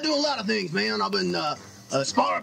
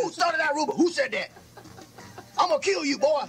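mock outrage; 2 semitones higher than usual. Mock threat after teasing question.

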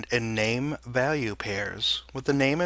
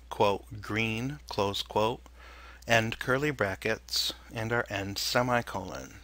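dictating. Shown as a demonstration. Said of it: "the following example is a simple object data type".

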